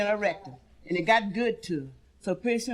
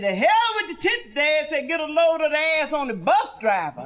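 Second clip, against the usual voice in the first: cocky retort; 4 semitones higher than usual. Acted. Son retorting to father.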